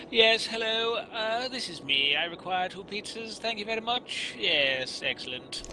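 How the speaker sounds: high, hammed-up posh English caller ordering pizzas; posh English accent. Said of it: "English my voice up".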